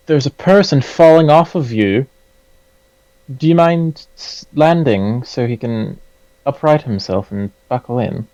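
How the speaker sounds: put-on gently British-accented request. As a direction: call up politely in a British accent. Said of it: "I don't know why I was British there".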